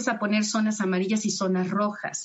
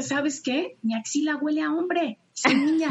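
lightly voiced girl, higher pitch; imitated protesting girl; 5 semitones higher than usual. Girl telling parent about her smelly armpit, mock protest. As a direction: mimic a child's puzzled protest, pitched up.

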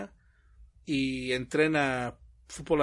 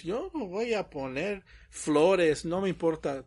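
put-on sulky kid; 3 semitones higher than usual. Kids answering back, retold.

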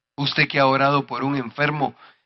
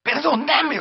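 high, drawn-out mock wail; imitated tearful wailing; 11 semitones higher, slower than usual. Preacher as the weeping pastor begging forgiveness, imitated wail. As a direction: act out a crying plea for forgiveness. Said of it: "gritaba y lloraba".

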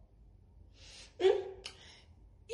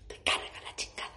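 muttered curse; 5 dB quieter than usual. Acted.

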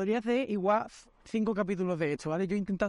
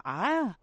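short mock yelp of pain, a bit higher; retold cry of pain; 5 semitones higher than usual. Girlfriend hit in the eye, retold cry of pain. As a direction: imitate her sudden cry when the umbrella hits her eye. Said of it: "Entonces Pilar grita".

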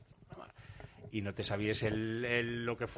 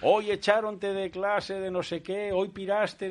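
scolding mother; 7 semitones higher, slower than usual. Retold or imitated. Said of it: "Llegaba y".

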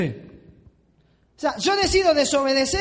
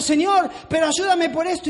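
mock pleading prayer; 4 semitones higher than usual. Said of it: "clamamos a Dios diciendo".

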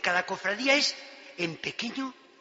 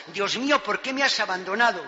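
loud cry; 3 semitones higher, 6 dB louder than usual. Acted. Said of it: "Es un grito".

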